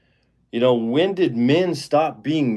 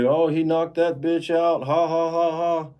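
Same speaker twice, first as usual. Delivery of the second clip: higher-pitched laughing quote with a ha ha ha; amused callous laugh, pitched up; retold laughing glee; 6 semitones higher than usual. Stepdad laughing at a woman knocked down, imitated high laugh. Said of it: "starts laughing at it".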